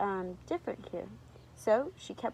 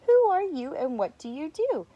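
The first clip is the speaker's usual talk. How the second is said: higher, louder, unfriendly challenge; loud, raised-pitch rude giraffe; not very nicely; 5 semitones higher, 7 dB louder than usual. A narrator's reading. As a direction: demand it rudely, storybook style. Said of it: "but not very nicely".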